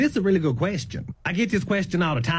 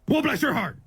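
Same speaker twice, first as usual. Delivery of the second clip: hurried; 4 semitones higher than usual. Shown as a demonstration. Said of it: "they could just be in a hurry".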